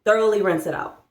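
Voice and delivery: put-on coaxing like a kids show host; preschool teacher. Shown as a demonstration. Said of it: "I sound like a preschool teacher".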